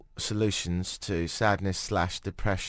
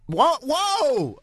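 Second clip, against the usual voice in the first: high, sharp disbelieving what and whoa; surprised; 5 dB louder than usual. Real, not acted. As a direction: react like the price just floored you. Shocked at guessed bar bill.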